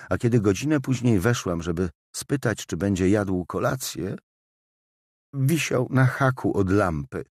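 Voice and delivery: distressed widow. Acted. Widow telling the inspector of finding her husband, mildly distressed.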